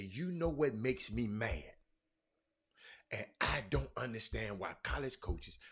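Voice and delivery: slow, deliberate read-aloud. Shown as a demonstration. Host rereading the tweet so viewers understand, slow reading. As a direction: read it out slowly, phrase by phrase. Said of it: "I'm gonna read it slowly".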